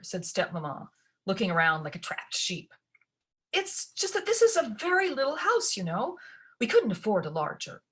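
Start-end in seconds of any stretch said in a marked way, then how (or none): 3.5-7.8 nervous stepmother. A narrator's reading.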